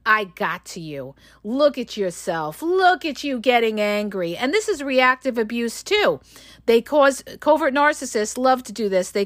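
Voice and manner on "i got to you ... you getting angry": gloating taunt. Retold or imitated. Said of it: "they're saying".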